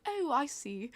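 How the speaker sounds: polite British realisation; put-on British accent, mildly enlightened. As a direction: imitate a British man catching on. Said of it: "so the British guy".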